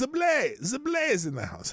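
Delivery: cheery shout-out to a viewer joining the stream; excited greeting. Real, not acted. Greeting viewer entering chat.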